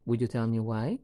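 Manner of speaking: "why" lifted into a courteous request; polite question. Shown as a demonstration. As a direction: ask politely, letting "why" rise at the end. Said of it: "need to make it polite".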